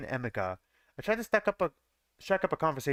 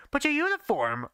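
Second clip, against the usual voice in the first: pitched way higher, urgent and startled; frantic question; 11 semitones higher than usual. A narrator's reading. Narrator asking Daisuke about his uniform, frantic. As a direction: ask it in a frantic rush of surprise. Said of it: "I frantically asked".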